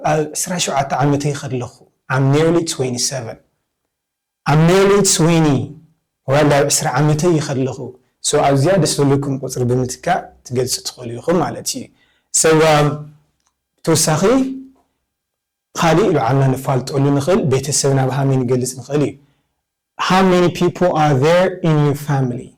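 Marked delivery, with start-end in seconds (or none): 2.1-3.4 unhurried and clear; slow model answer. Shown as a demonstration. Teacher giving students a model answer, slowly. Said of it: "teacher models an answer". 20.0-22.5 slow model. Shown as a demonstration. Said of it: "teacher models the question".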